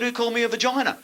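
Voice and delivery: high, loud mock sergeant yell. Sergeant yells at the recruits, mock furious yell. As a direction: bark it like a furious drill sergeant. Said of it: "this sergeant went berserk".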